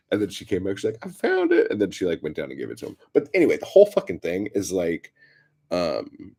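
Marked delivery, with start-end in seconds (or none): 1.0-1.7 very high, loud announcement; high mock sing-out; calling out. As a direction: imitate the neighbor hollering down. Neighbor calling down from window.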